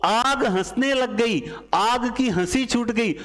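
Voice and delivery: mock-amazed teacher; amused storytelling. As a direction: tell it like a funny twist. Mnemonic story, fire laughing.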